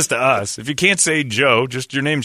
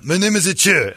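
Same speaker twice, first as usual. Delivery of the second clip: high imitation East Asian accent; mock Asian accent; 7 semitones higher, 4 dB louder than usual. Golfer correcting his partners, mock Asian accent. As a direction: protest in an exaggerated Asian accent. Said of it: "Cha was pretty sweet".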